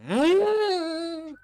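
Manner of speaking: loud, high drawn-out squeal; long squeal through closed lips. Acted. Mikey hears his crush named, high squeal.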